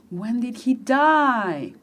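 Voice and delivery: very slow "When did he die?", stress falling on "die"; slow emphasized question. Shown as a demonstration. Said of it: "poner énfasis en estas preguntas". (pregunta muy lenta con énfasis en "die")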